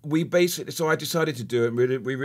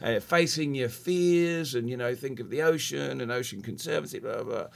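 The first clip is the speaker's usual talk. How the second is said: put-on Australian accent. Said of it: "That was my Australian accent".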